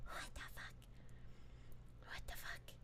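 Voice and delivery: breathy shocked whisper; real stunned whisper. Real, not acted. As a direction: whisper it in disbelief.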